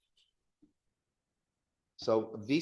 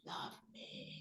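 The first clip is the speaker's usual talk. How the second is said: intense telenovela plea; 20 dB quieter than usual. Retold or imitated. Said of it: "with that intensity".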